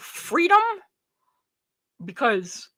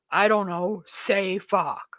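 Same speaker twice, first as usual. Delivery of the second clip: ordinary delivery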